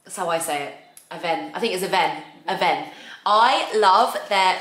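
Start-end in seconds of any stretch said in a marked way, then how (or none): 1.1-2.9 Aven said as "a-VEN", stress on the second syllable; brand pronunciation. Shown as a demonstration. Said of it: "How do you say it?".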